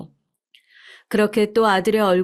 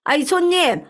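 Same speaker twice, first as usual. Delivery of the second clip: much higher, louder call after the customer; calling after him; 8 semitones higher, 4 dB louder, slower than usual. Acted. 뛰쳐나가는 손님을 부르는 식당 주인, 높고 크게 외치며. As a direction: shout after the man running out.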